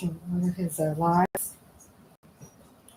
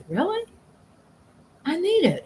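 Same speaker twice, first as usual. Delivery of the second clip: excited; 10 semitones higher than usual. Retold or imitated. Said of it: "I go".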